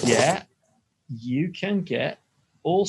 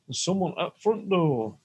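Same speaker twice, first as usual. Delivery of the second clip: higher Yorkshire doorbell voice; Yorkshire accent; 4 semitones higher than usual. Acted. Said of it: "in a Yorkshire accent".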